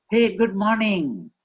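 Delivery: "Hey" high and loud, slow and lifted; bright greeting. Shown as a demonstration. Trainer's second take, a lively hey good morning. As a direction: greet with real delight. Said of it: "slight variation in the emotion".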